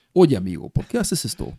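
lightly put-on neutral Spanish, rising at the end; mock neutral Spanish. Mocking how a Paraguayan series must not sound, in neutral Spanish. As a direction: poke fun at textbook neutral Spanish. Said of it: "yo no puedo estar hablando de esta manera".

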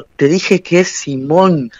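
irritated correction. Retold or imitated. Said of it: "yo me desvía la sangre".

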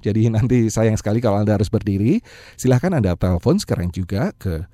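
upbeat sales pitch; infomercial. Acted. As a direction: pitch it like a radio ad. Seminar promo pitch.

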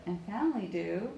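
"do" as the phrase's peak; stress on DO. Shown as a demonstration. Coach showing the loudest part, stress on "do". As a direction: build to a strong final "do". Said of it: "the do is the loudest part".

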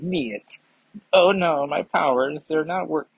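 second-rate mock Russian accent; shaky attempt at sounding Russian; bad Russian accent. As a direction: have a go at a Russian accent, then give up. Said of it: "I thought I could give it a second run up".

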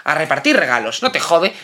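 arranque de irritación sarcástica; suéltalo con agresividad medio en broma; agresivo. Real, not acted. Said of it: "hoy estoy agresivo". (tono agresivo y burlón)

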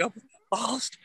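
high, whimpering mock fear; mock scared crying. Mocking his own scared call to his friend, high and whiny. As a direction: play the lost scared drunk, hammed-up. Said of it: "I called you damn near crying".

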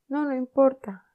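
high, loud fake moan; hammed-up pain. Tom pretending to suffer in bed, hammed-up. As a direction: overplay the hurt.

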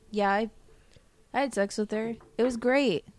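mock smug boast. Imitating him bragging about sex with her, smug. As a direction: brag lightly, imitating a self-satisfied man.

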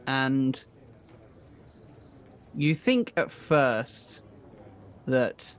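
measured narration with drawn-out phrases; game master's scene setting. Acted. Game master tells players of the captive's smirk, suspenseful narration. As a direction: set the scene slowly, pausing between phrases.

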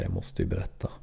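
low, breathy confiding whisper; a hushed confession. Retold or imitated. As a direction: let it slip out under your breath. Confessing at dinner table.

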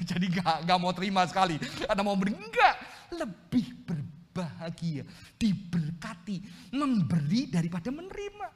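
loud, punchy preacher's challenge; forceful preaching. Real, not acted. Preacher challenging the congregation on giving versus receiving, forceful. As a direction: drive the verse home, emphatic and insistent.

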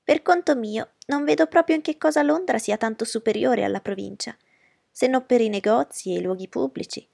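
mother triumphant over Darcy. Acted. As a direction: press the victory home. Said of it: "continuò trionfante".

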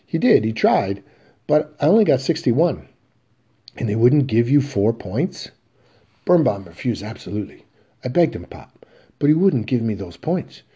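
put-on a boy begging his father to help; earnest pleading son. Biff pleads about math.

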